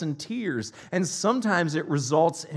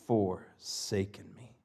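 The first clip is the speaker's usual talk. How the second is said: anguished cry; 4 semitones lower than usual. Retold or imitated. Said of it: "And he cries out".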